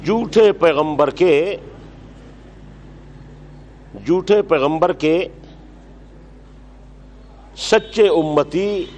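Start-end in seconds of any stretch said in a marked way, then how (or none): 4.1-8.8 slow dictation. Shown as a demonstration. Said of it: "dictating word by word".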